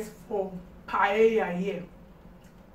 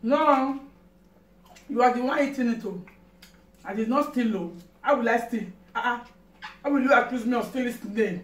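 indignant denial; 4 dB louder than usual. Acted. Playful stealing accusation quarrel.

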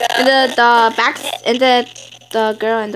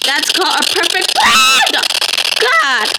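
high gloating yell; gloating shout; 6 semitones higher, slower than usual. Real, not acted. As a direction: crow about the plan.

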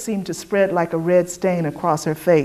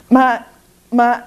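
stumbling, slow, higher stammer; sputtering; 6 semitones higher, 3 dB louder than usual. A narrator's reading. The white woman sputtering at Dessa, flustered stammer. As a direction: trip over the words, flustered. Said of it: "the white woman sputtered".

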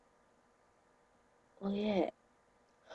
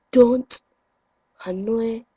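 louder, stern; loud warning; 5 dB louder, much slower than usual. Real, not acted. Telling viewers off, a loud warning. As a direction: warn them off. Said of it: "warning viewers".

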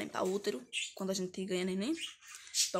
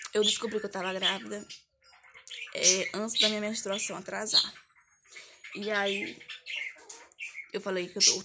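ordinary talk, nothing marked

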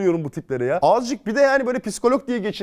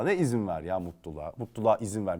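low mocking scoff; 11 semitones lower, 8 dB quieter than usual. Mocking the advice to let happiness in, low and quiet. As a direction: drop low and quiet to mock the phrase.

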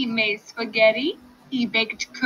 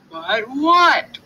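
growl; 6 semitones higher, 7 dB louder than usual. Acted. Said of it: "growled the fox".

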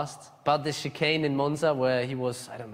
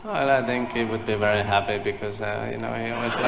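Kimi; 2 semitones lower, 4 dB louder than usual. Acted. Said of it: "If Kimi was here, what kind of things might he say".

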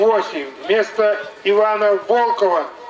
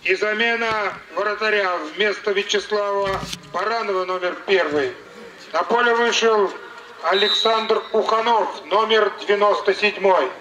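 booming announcement over the stadium speakers; formal PA announcer voice; echoing stadium announcer; 2 semitones higher, 18 dB louder than usual. Real, not acted.

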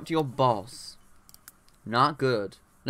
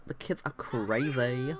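softer, slower, through a laugh; laughing repeat; 5 dB quieter, slower than usual. Real, not acted. Babysitter laughing at her own complaint, softer laugh. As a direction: laugh it off quietly.

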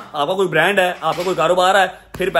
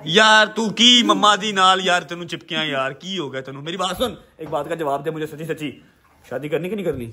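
coaxing; 3 semitones lower than usual. Real, not acted. Gently coaxing the shy boy.

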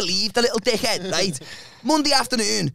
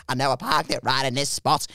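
lower, lightly put-on voice; insistent friend's voice; 7 semitones lower, 4 dB quieter than usual. Friend searching the empty patch, low insistent voice.

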